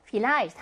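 Vielleicht stressed on -leicht; stress on second syllable. Shown as a demonstration. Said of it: "얘도 이음절에 강세가". (Vielleicht의 둘째 음절 leicht에 강세)

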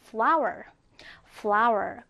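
careful model reading of "flower"; model pronunciation. Shown as a demonstration. Teacher modelling "flower" for learners, careful pronunciation. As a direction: say "flower" clearly as a word to copy. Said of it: "자, 발음해볼까요?".

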